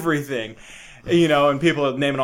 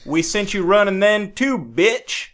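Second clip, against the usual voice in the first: higher, louder hammed-up flag-waving yell; mock patriot rant; 8 semitones higher, 4 dB louder than usual. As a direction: bellow like a cartoon patriot.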